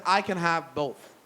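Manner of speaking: confident. Retold or imitated. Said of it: "He said that with confidence".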